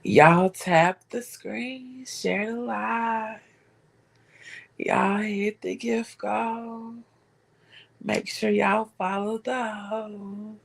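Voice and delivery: mocking Essence in a slow, hushed whisper; slow, breathy mock-pleading for her friend; whispered Essence impression, drawn out. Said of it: "I gotta do my Essence voice".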